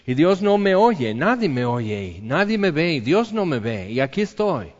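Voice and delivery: acted cry unheard. Sufferer feeling invisible to God, crying out in mild protest. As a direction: cry out as if nobody hears, stretching the words. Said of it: "estoy gritando aquí en el silencio".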